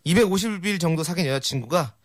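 reading through rising laughter; laughter takes over the punchline; cracking up. Real, not acted. Cracks up at own altered joke.

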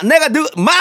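high mock movie tough-guy shout; gruff actor catchphrase. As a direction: bark it like a movie gangster. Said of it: "영화에서 이분이 마".

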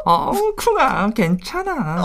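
high, sweet nasal couple talk. Retold or imitated. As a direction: coo it, high and through the nose. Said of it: "코맹맹이 소리까지". (높고 달콤한 코맹맹이 소리)

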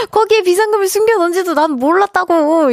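high-pitched mock indignation; wronged protest. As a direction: plead innocence in a high, aggrieved voice. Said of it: "얼마나 억울할까". (억울한 듯 높은 목소리로 하소연)

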